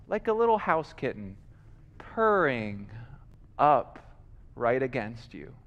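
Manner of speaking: soft, low, spaced-out phrases; hushed tenderness. Real, not acted. Preacher describes lion purring up against you, hushed. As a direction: let it sink gently to a hush.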